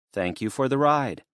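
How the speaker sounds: put-on earnest worried young woman. Destiny, even tone.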